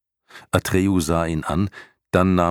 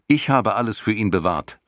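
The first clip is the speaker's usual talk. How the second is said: put-on higher, urgent young hero pleading; Atreju's earnest boy voice; 6 semitones higher, 3 dB louder than usual. A narrator's reading. Atreju vouches for Bastian before the snakes, pleading higher boy voice. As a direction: speak up for your friend, higher and eager.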